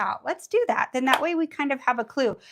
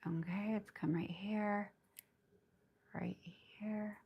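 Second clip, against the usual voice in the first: whispering; 12 dB quieter, slower than usual. Real, not acted. Quiet focused moment while painting.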